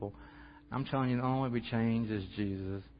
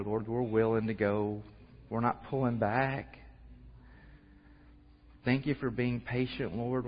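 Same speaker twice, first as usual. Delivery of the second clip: prayer. Acted. Closing prayer.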